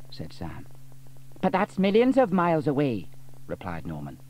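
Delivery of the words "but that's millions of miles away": put-on puzzled boy. A narrator's reading. Norman objects.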